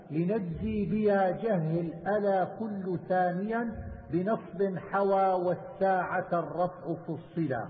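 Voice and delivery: slow, measured verse recitation; poem recitation. Acted. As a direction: draw out the syllables, reciting metred verse. (إلقاء منظومة بتمهل ومدّ)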